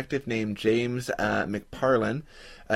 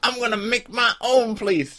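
mock founder; 9 semitones higher than usual. Voicing the founder.

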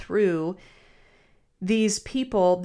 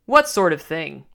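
low, louder growl from a big beefy man; a gruff challenge to the complaining man; 4 semitones lower, 6 dB louder than usual. Acted. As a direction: snarl the question back at him. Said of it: "growled the other".

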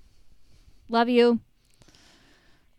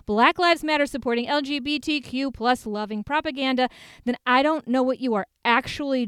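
builds a heated rant from a high sharp start; ranting yell; 3 semitones higher than usual. Real, not acted. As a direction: rattle off the list like a fed-up activist. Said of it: "I don't know why I'm yelling at you".

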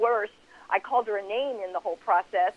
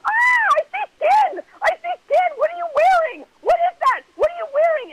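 much higher and louder panicked yell; retold scream; 8 dB louder than usual. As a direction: shriek it like a panicked mom. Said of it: "And I screamed out".

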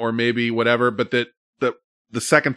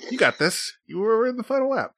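high-pitched self pep talk; little high-voiced pep talk to yourself; mock pep talk; 11 semitones higher than usual. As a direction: cheer yourself on in a raised voice. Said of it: "Give myself a little pep talk".

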